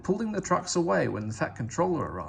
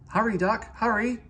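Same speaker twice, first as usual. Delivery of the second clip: higher, louder, pressing call; urgent call; 9 semitones higher, 4 dB louder than usual. A narrator's reading. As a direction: hurry him along urgently. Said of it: "he called urgently".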